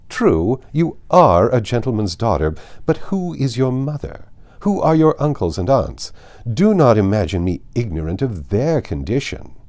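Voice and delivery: a hint of an imperious aristocrat pressing; Lady Catherine.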